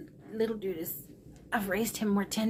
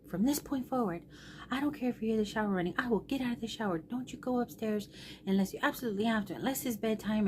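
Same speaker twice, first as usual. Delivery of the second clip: mildly imitated son laying down rules, higher and hurried; retold scolding; 4 semitones higher, faster than usual. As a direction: rattle off the rules like a worked-up son. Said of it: "he's yelling".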